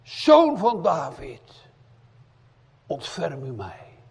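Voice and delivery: loud, high, very slow cry; loud slow cry to the son of David; hard scream, held back. Acted. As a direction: call it out long and loud. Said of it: "een hele harde schreeuw".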